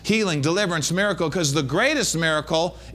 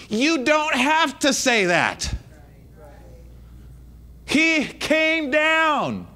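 forceful exhortation with weighty, drawn-out commands; emphatic preaching; 5 semitones higher, slower than usual. Real, not acted. Preacher tells church to stop saying it, emphatic preaching. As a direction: preach it as an urgent correction.

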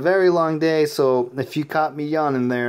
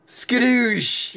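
excited shout; 6 semitones higher than usual. Real, not acted. Celebrating a goal.

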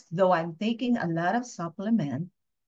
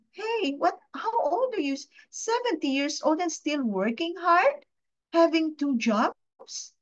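shocked onlooker; 8 semitones higher than usual. Pretend. Imagined stranger to an old worker, a high shocked disbelief. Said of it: "I don't want to be looking at this person".

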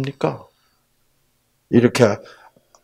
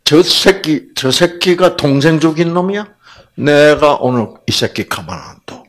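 raised-voice mock outrage; acted angry threat; 4 semitones higher, 3 dB louder than usual. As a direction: play someone itching for a fight. 가인에게 분노한 사람을 연기. (화난 사람 흉내로 높인 엄포)

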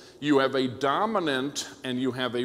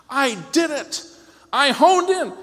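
high, loud cry of victory; mock triumph; 12 semitones higher, 9 dB louder than usual. Radio listener celebrating the perfect tuning, triumphant shout. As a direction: crow it like a hammed-up champion.

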